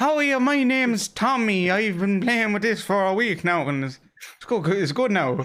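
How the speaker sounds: put-on high, slow little-kid voice; squeaky mock six-year-old; imitating a kid.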